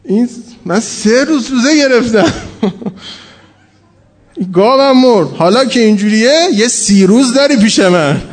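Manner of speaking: mock-indignant bargaining with God through laughter; half-laughing comic grievance; laughing retelling. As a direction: chuckle while voicing the farmer's complaint. Retold farmer bargaining with God.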